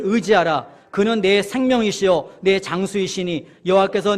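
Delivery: slow, firmly projected verse reading; scripture reading aloud. Acted. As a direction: read it out for all to follow. Reads a verse aloud together. (힘주어 천천히 성경 봉독)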